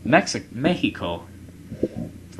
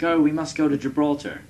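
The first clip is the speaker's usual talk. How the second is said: mock Russian accent; 7 semitones higher, 3 dB louder than usual. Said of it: "I don't feel like doing a Russian accent".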